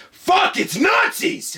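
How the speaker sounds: high, drawn-out alarmed shout; hammed-up cry of sudden panic; mock panicked yell. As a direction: yell it in comic horror. Acts out Barney's panicked realization.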